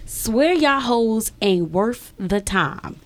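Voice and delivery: slow, dragged-out scornful read; disrespectful reading. Shown as a demonstration. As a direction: lean on the insult slowly. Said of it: "I used the word hoes as disrespectful as I possibly can".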